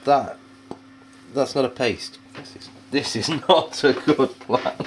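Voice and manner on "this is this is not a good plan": breaking up mid-sentence; halting, slowed by real laughter; laughing. Real, not acted. Cook cracking up at failed paste.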